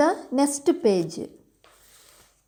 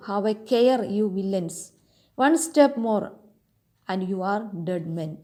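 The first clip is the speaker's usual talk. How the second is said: hero's mock shout. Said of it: "I shout".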